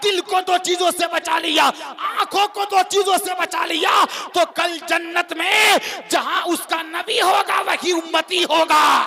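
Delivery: high, shouted sermon climax; full-force preaching. Real, not acted. Preacher relaying the Prophet's promise to the congregation, full-force preaching. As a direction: build it high and ringing, stretching out the last phrases.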